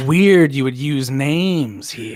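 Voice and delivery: slow, drawn-out doubt; suspicious. Acted. Clipboard man doubting the newcomer's story, slowly suspicious. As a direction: stretch the words as you catch someone out.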